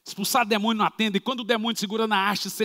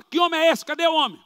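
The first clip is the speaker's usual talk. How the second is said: baffled question; 9 semitones higher, 5 dB louder than usual. Acted. Delegate baffled by the story.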